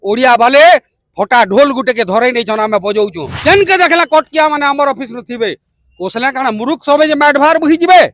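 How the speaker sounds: chanted verse, surging then falling away; protest poem recitation. Acted. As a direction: declaim each line in a measured beat. (ଛନ୍ଦରେ ପ୍ରତିବାଦୀ କବିତା ଆବୃତ୍ତି)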